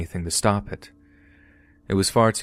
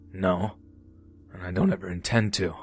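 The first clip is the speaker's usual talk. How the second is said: contemptuous; 3 dB quieter than usual. Retold or imitated. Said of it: "he replied contemptuously".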